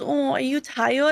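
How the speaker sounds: put-on babyish cooing baby talk with mushed words. Speaker acting out a guy who talks to them when they're tired, imitating baby talk. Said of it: "If a guy ever baby talks to me".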